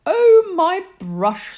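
put-on high, slow girlish character voice; drawn out as if delighted to find it; storyteller voicing Tasha, slow and high.

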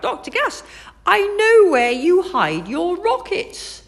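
high, loud, excited call; excited shout. A narrator's reading. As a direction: shout it out, pointing. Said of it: "made him point and shout".

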